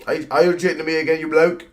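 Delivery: fast, mock British accent, badly done; hammed-up British accent, rushed. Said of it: "That was a terrible accent".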